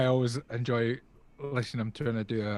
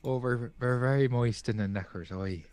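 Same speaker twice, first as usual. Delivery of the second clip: put-on soft Irish accent. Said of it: "that's more Irish than, than British".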